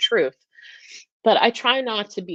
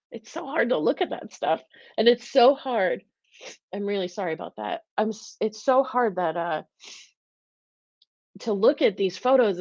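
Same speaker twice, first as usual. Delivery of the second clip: struggling to hold it together; emotional; 3 semitones higher than usual. Real, not acted. Vegan host upset over holiday meat photos, emotional, near tears. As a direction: voice pitched up with real upset. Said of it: "I'm so emotional tonight".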